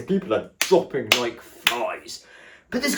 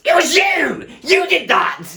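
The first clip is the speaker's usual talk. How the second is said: much higher and louder disbelieving cry; indignant outburst; 7 dB louder than usual. Retold or imitated. Realizing the stylist botched her hair, a shocked high cry. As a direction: blurt it out in shocked outrage.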